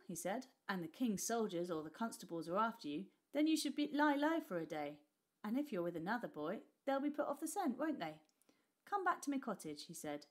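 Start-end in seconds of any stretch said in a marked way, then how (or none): 0.7-9.8 put-on higher eager boyish voice; a street boy begging to tag along. Nick asking the rich boy to let him come, eager.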